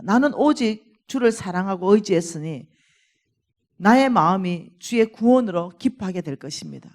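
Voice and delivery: preacher's declamatory Bible reading; scripture recitation. Acted. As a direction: proclaim the psalm to the congregation. Reads the psalm's declaration of victory.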